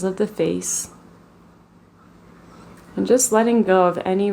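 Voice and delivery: calm, even meditation voice with long pauses; guided meditation. Real, not acted. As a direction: guide them gently into the body, leaving space between phrases.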